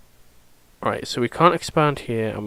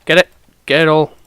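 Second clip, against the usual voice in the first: excited; 3 semitones higher, 8 dB louder, faster than usual. Real, not acted. Urging colonists to grab jade.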